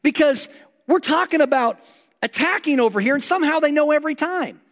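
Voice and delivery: king of Syria suspects a traitor among his men, agitated. Retold or imitated. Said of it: "He starts really getting agitated".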